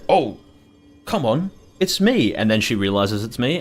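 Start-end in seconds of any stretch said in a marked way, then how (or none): 0.1-2.4 higher, slow coaxing to a barking dog; pleading with the neighbor's dog, higher and slower. Retold or imitated. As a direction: talk her down gently, drawn out. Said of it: "And I'm like".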